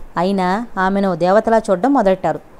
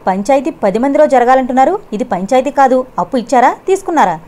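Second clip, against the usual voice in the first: higher, louder, cutting questions; sharp demand; 4 semitones higher, 4 dB louder than usual. Acted. Kalavathi confronting Ramapati before villagers, sharp and loud. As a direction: fire the questions back at him. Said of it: "తీక్షణంగా అడిగింది".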